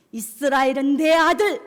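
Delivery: loud, commanding proclamation; booming divine claim; God's declaration. Acted. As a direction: declare it forcefully as God. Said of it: "하나님 이렇게 말씀하십니다".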